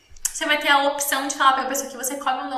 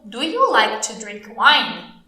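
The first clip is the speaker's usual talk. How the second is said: slow, lower-pitched teacher English; slow model question; 4 semitones lower, much slower than usual. Shown as a demonstration. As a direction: ask it slowly and clearly for learners. (pergunta-modelo lenta e clara)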